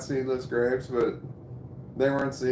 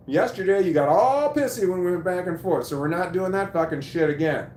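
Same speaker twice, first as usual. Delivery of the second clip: retold telling-off; 6 semitones higher, 5 dB louder than usual.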